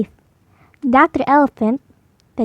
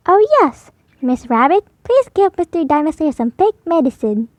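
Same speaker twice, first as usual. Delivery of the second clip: put-on higher little girl voice, bossy; Peppa pretending dentist; 3 semitones higher than usual. Peppa playing dentist tells her assistant. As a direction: play the dentist brightly.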